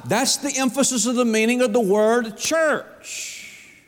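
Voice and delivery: a sugary, hammed-up gentle delivery; mock sweet. Pastor teasing the congregation, mock sweet and slow. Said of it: "Wasn't that sweet of me?".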